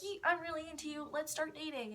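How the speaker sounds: high, quick imitation of younger self; mock eager confession. Eighth grader asking a girl out, mock eager confession.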